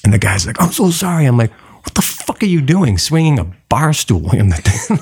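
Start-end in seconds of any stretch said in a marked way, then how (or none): 0.6-1.3 higher-pitched mock apology; retold apology. Bar guy apologizing to the teller, apologetic. 1.8-4.3 higher, indignant reenacted demand; retold indignation. Teller confronting guy with a bar stool, indignant.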